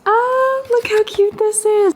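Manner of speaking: high, gushing coo; high squeal of delight; excited coo. Real, not acted. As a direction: gush over something cute. Opens a watercolor gift.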